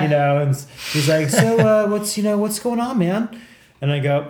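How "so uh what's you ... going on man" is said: imitating a casual cop, pitched well up; high, casual mock-detective voice; cool-guy detective. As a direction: play the cool cop easing into questions. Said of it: "like, the cool guy".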